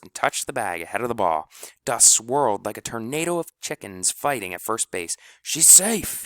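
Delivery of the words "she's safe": high, loud call of the play; triumphant shout; jubilant yell. A narrator's reading. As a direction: announce it with joy. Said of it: "yelled Doctor Dan".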